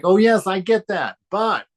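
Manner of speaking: hammed-up yes-but dismissal; mock devotee. Teacher mocking devotees who say yes then object, hammed-up. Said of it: "It's like".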